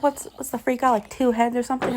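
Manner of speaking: lightly put-on jeering voice; mocking villain. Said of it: "He's like".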